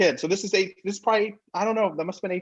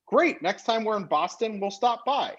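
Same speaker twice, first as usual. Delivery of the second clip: higher, airy blow-off of the invite; breezy retold reply, pitched up; mock casual brush-off; 6 semitones higher than usual. Telling the Reebok guy we'll drop by sometime, high and airy.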